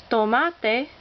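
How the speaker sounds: tomate with MA stressed; stress on second-to-last syllable. Shown as a demonstration. Teacher demonstrating a Spanish rule, stress on second-to-last syllable. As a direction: lean on the middle syllable of tomate. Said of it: "accent on the second to last syllable".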